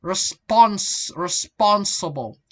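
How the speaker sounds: "response", "responsible" with a loud second syllable; stress on SPON. Shown as a demonstration. Teacher showing stress placement, "response" and "responsible" stressed on SPON. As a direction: punch SPON in both words. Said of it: "Stress shifts left, right".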